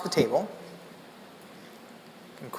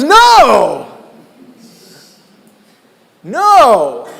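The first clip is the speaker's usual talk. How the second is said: higher, louder emphatic refusal; insistent no; 5 semitones higher, 10 dB louder than usual. Retold or imitated. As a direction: cut him off, correcting firmly. Quincy insists on lesson.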